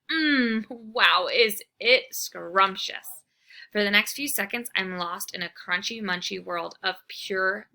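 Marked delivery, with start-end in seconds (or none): 0.1-3.2 delighted. Acted. Dog savouring food.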